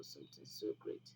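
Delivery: hushed whisper of a secret. Acted. Host teasing viewers about the object in his hands, whispered. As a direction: breathe it out like a secret.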